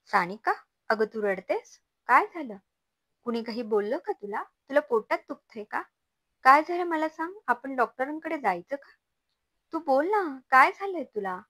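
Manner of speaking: high, loud, rushing worried questions; anxious questioning. Acted. Mother-in-law alarmed to find her daughter-in-law crying, high and loud.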